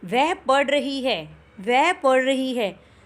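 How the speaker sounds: वह stressed, read slowly; slow example with weight on वह; वह पढ़ रही है with वह stressed. Shown as a demonstration. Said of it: "एक एग्जांपल के साथ मैं बोल रही हूँ".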